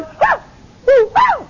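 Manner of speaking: high squealing woos, imitating the old lady; excited woo. Preacher imitates the healed old lady whooping in church, high squeals. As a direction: squeal it out like the happy grandma. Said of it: "And she starts going".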